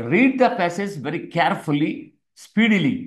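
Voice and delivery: teacher dictating the first step slowly; slow dictation. Shown as a demonstration. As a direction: Read the passage very carefully, word by word. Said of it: "first step ఏంటి".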